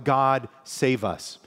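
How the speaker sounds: a slow, earnest petition; slow prayerful plea. Retold or imitated. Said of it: "it's kind of like".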